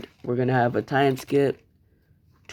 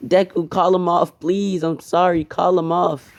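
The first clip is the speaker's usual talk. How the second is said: desperate pleading; 6 semitones higher than usual. Acted. Gon fighting the rock man, begging Deku high and frantic. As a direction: beg for it to stop, voice strained high.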